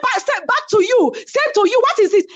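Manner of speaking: snapping back. Retold or imitated. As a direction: throw it right back. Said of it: "She said".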